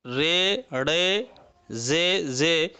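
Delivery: रे, रे, जे, जे ending in long "ay"; majhul letter names. Shown as a demonstration. Teacher models four Urdu letters, रे, जे in majhul "e". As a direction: hold the "e" vowel in रे and जे. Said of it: "हम लोग मजहूल पढ़ेंगे".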